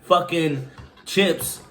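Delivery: high, strained from spicy heat; burning mouth. Real, not acted. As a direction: talk through a burning mouth. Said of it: "I can't even talk".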